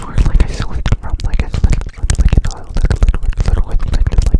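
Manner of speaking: muffled cupped hand whisper; fishbowl whisper. Shown as a demonstration. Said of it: "which it would go like this".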